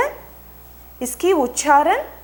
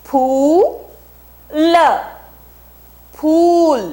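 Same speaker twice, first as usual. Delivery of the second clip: emphatic model word; 5 semitones higher, 6 dB louder, much slower than usual. Shown as a demonstration. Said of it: "अब बोलिए".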